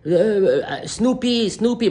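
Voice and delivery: high calling out to the dog. Retold or imitated. Friend calls his dog from afar, high-pitched call. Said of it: "il commence à crier".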